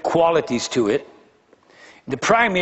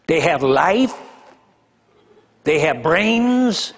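incredulous rhetorical questions; 3 semitones higher, much slower than usual. Real, not acted.

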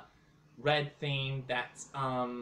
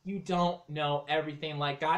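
shouting. Acted. Repeats louder in the quarrel.

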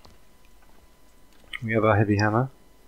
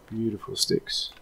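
Australian beautiful. Retold or imitated. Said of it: "I picked that up in Australia".

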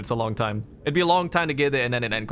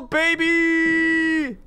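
gloating cheer; 4 dB louder than usual. Real, not acted.

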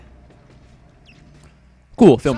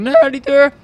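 mock rapper voice; 9 semitones higher, 3 dB louder, slower than usual. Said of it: "de rapper doet zo van".

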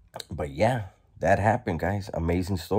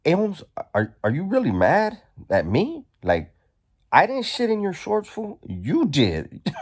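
teasing through laughter; 12 semitones higher than usual. Retold or imitated. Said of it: "So then I was like".

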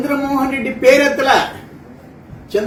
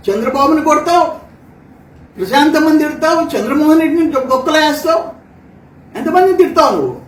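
angry tirade; 3 semitones higher than usual. Real, not acted. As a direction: hammer each charge at him, heated. Heated attack on rival at presser.

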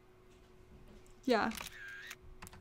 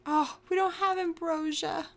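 raised-pitch, helpless lament; helpless whine; 3 semitones higher than usual. Real, not acted. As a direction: whine it in despair. Helpless, no way to revive her.

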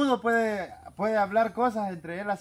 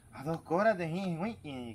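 a lightly voiced gangoso, quieter than the telling; mock gangoso voice; 6 dB quieter than usual. A hint of a gangoso asking for his order. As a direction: faintly ham up the unclear speech.

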